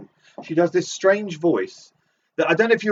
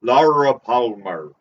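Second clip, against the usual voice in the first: low drawn-out repeat; 5 semitones lower, slower than usual. Acted. Low slow repeat of name.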